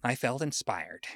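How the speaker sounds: lightly voiced old lady telling her tale. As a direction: reminisce as a chatty, lightly put-on old lady. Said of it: "I'll be reading this in old lady voice".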